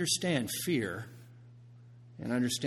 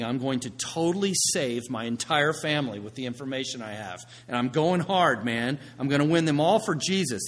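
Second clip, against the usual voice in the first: mock fired-up zeal, louder in bursts; 3 dB louder than usual. New zealot vowing to save the whole family, fired up. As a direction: imitate someone lightly pumped to convert the family. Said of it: "a lot of times we get fired up".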